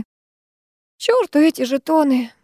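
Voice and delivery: sluggish, slow and listless; вяло. A narrator's reading. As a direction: drag it out, worn out. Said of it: "вяло ответила я". (вяло, медленно и без сил)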